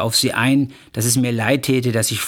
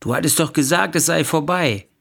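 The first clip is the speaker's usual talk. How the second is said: higher, defensive acted plea; pleading protest; 4 semitones higher than usual. Husband caught by his wife, pleading in his defence. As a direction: protest your innocence, pitch lifted.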